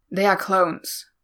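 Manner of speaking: slow, mildly contemptuous; a touch of venom, words spaced out; spat out. A narrator's reading. Wary man objecting to the clones, spitting it out. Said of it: "Baze spat".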